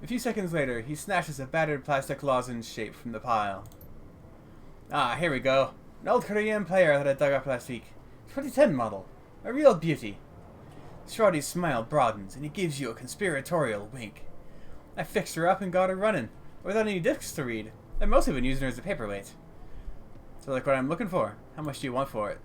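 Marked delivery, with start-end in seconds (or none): 4.9-10.2 put-on proud German-accented junk dealer; lightly gruff German tinkerer. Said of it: "heavily accented with German tonality". 15.0-19.3 put-on chatty, lightly German-accented tinkerer; old junk dealer with a hint of German; gruff but friendly German-accented sales talk. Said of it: "heavily accented with German tonality".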